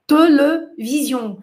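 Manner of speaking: television said slowly, the e's neutral with no accent marks; pronunciation without accent. Shown as a demonstration. Professora mostra aos alunos a palavra sem acento, devagar. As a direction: show how télévision would sound unaccented. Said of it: "Como seria a pronúncia sem acento?".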